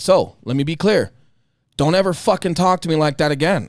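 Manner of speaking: a coworker tells his pretentious boss exactly how he warned him, firm and cold; firm retold warning. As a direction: replay the stern warning to the office boss, measured and hard. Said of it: "And I said it just like that".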